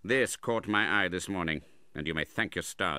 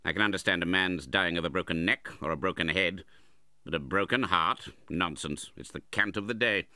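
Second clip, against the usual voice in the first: louder, raised scoffing voice; scornful uncle; 4 semitones higher, 5 dB louder than usual. A narrator's reading. Uncle scoffs at the widow's grief, contemptuous. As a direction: dismiss it with loud contempt.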